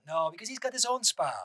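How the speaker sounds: a weak imitation of the butler's accent on "No, because he's got his own spa"; the butler answering in a lightly put-on accent; Juan Alessi's accent. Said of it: "that accent is not as good".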